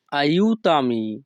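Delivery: very slow, careful teacher pronunciation; slow Italian model word. Shown as a demonstration. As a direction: stretch the word for learners. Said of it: "তখন আমাদেরকে বলতে হবে".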